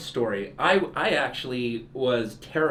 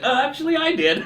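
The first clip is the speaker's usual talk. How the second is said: high-pitched, louder, breaking into laughter; laughing admission; 12 semitones higher, 6 dB louder than usual. Retold or imitated. Host admitting the childhood exception, laughing. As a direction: own up through a laugh.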